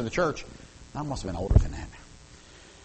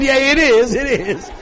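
high, loud hurried agreement; eager reply; 12 semitones higher, 11 dB louder, slower than usual. Retold or imitated. Preacher assuring his wife it's Jesus, high and loud. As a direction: rush to reassure her. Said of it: "I said".

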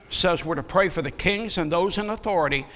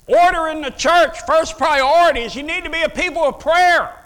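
much higher and louder preacher's cry; preaching at full force; 9 semitones higher, 8 dB louder than usual. Acted. Preacher rallying the congregation, loud and high. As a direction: drive the point home to the church.

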